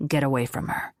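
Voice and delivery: lightly voiced harsh warning from Riker; low and harsh. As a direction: warn him off low and rough. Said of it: "low and harsh".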